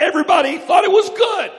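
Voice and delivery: high, loud shout; preaching shout. Acted. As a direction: lift it to the rafters. Preaching climax.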